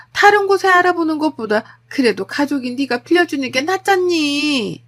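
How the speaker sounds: insistent mother-in-law. Acted. Mother-in-law asking for the savings, insistent pleading. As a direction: press the plea, stretching the last word.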